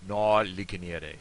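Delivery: slow, loud "Na ligoniere", "Na" like "naw"; rounded southern vowel. Shown as a demonstration. Teacher modelling the southern phrase, "Na" said as "naw". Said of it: "it's na, not na".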